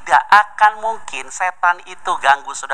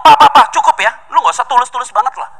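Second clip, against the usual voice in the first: nagging wife; 7 semitones higher, 4 dB louder than usual. Acted.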